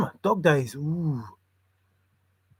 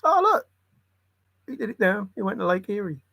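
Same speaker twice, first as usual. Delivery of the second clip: mock quote; 4 semitones higher, faster than usual. Acted quote, high voice.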